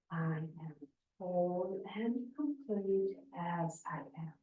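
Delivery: soft, half-whispered mantra. Shown as a demonstration. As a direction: repeat it softly, almost whispering. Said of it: "whispering or half the noise, the voice".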